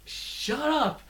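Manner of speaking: very high whiny mock yelling, a cry in it; mocking a shrill kid. Vlogger mocks Short Round's constant yelling, very high and whiny. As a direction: squeal it like a grating kid screaming his lungs out. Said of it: "and it's just this grating".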